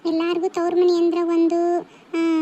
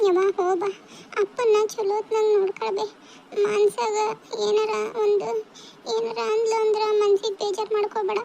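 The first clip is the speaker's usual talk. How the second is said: acted tearful plea, slightly raised pitch; tearful goodbye; 3 semitones higher than usual. Daughter parting from her mother with care advice, tearful. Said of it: "ಯಾಕ್ ಅಳ್ತೀರಿ ಅಂತ".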